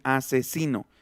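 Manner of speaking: "asesino" with the s between vowels voiced like a buzzing z. Shown as a demonstration. Teacher to class: hear asesino, s voiced as z. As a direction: let the s in "asesino" buzz as a z. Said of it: "Ya no suena s, sino suena z".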